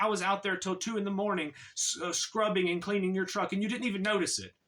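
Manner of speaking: mild retold frustration, hurrying at the end; frustrated. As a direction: imitate someone hurt at going unnoticed. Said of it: "he gets frustrated with me".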